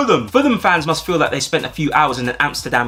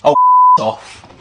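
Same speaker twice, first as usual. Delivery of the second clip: mocking laugh; 5 dB louder than usual.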